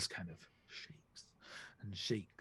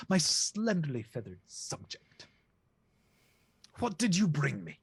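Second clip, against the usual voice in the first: goose king; 6 semitones higher, 5 dB louder than usual. Acted. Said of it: "Goose King turns to Hearn".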